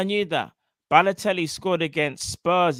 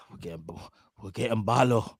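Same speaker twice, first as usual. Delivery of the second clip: put-on a weak stab at a Northern Irish accent; half-hearted Northern Irish impression, barely held; bad Brendan Rodgers accent; 8 semitones lower, 5 dB quieter than usual. Fan badly mimics Brendan Rodgers telling Gerrard about Balotelli, Northern Irish accent. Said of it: "I can't do that accent".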